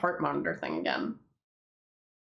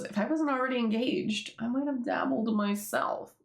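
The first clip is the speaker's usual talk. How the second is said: flirty Pim; 5 semitones higher than usual. Retold or imitated. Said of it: "So then Pim goes".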